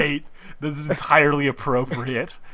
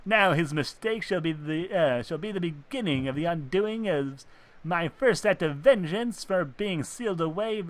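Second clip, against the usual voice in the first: gloating villain; 3 semitones higher than usual. Acted.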